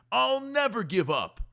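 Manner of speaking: determined. A narrator's reading. Boy affirming himself.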